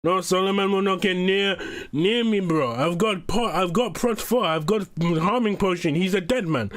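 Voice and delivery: second go at an uncertain put-on accent; Hugo impression. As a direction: lightly imitate someone boasting in an odd accent. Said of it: "I'm trying to do a Hugo impression".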